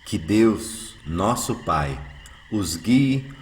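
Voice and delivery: smiling greeting. Acted. Eurípides greets his would-be killers, smiling warmly. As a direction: bless them gently with a smile. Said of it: "diz sorrindo".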